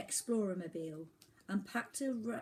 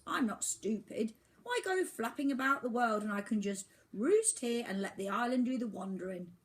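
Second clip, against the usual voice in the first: put-on grumpy old albatross; 6 semitones higher, 6 dB louder than usual. A narrator's reading. Albatross lectures Oliver.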